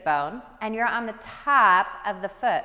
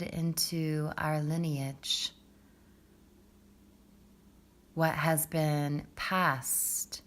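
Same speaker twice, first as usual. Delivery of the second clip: guided meditation; 5 semitones lower, 6 dB quieter than usual. Acted. Yoga teacher guiding students into the root chakra, calm meditative hush. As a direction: ease them gently down into the breath, unhurried.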